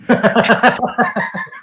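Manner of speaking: high, amused laugh after the punchline; real laugh. Real, not acted. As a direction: laugh freely at the joke.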